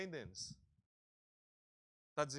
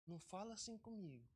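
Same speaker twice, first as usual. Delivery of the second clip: touchy whiner. Retold or imitated. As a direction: play the easily offended, close to tears. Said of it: "o ego fica assim".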